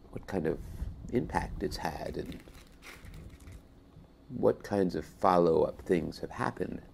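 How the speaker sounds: talking with a mouthful of pretzels; chewing while talking. Real, not acted. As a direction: speak while still chewing, mouth full. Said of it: "Excuse me, I'm eating some pretzel sticks".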